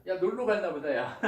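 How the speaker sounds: lightly mocking retold jeer; teasing. Elijah mocking the rival prophets about their god, teasing. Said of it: "막 이렇게 놀린단 말이에요".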